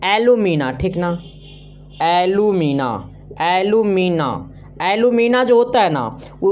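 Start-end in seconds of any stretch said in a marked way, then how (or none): 0.0-0.7 "एल्यूमिना" said distinctly, ending in -ना; careful pronunciation. Shown as a demonstration. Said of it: "इसको एल्युमिनियम नहीं पढ़ना". 2.0-4.3 "एल्यूमिना" in drawn-out syllables, lower-pitched; careful pronunciation. Shown as a demonstration. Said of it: "इसको एल्युमिनियम नहीं पढ़ना".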